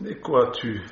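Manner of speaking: doubting father asking sharply; suspicious old father. Acted. Preacher voicing suspicious Isaac.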